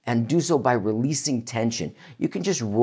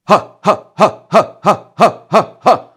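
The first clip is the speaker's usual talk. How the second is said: higher, louder punched ha; loud ha breath exercise; diaphragm ha pulses; 7 semitones higher, 10 dB louder than usual. Shown as a demonstration. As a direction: drive each ha from the belly. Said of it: "when I'm going ha".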